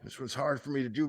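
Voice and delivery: talking through a clenched jaw; jaw shut. Retold or imitated. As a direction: imitate him barely opening the mouth. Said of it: "because I can't open my mouth".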